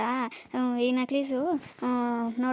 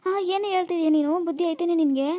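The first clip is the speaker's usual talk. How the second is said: higher, louder indignant retort; indignant scolding; 4 semitones higher, 4 dB louder than usual. Acted. Granny scolding the woman who doubts her gossip, indignant. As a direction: snap back, offended.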